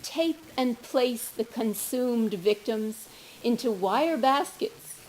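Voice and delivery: deliberate, emphatic verse with spaced phrases; poetry reading. Acted. Daughter reading a poem about her father, measured recital. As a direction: recite it slowly, pausing between images.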